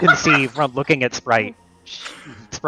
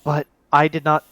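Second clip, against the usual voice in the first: higher, flustered protest that builds; a rattled man denying the words; flustered Marcus; 4 semitones higher than usual. Acted. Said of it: "Marcus turns to you and just goes".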